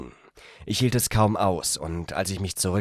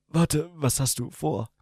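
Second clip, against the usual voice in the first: higher male character voice; young man, startled; 10 semitones higher than usual. A narrator's reading. The young man reacts to her hand, higher and startled. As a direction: stop her, surprised.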